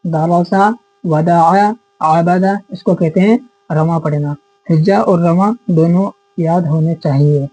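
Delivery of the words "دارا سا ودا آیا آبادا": fluent reading. Shown as a demonstration. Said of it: "direct پڑھیں گے ایک دم سیدھا ایسے".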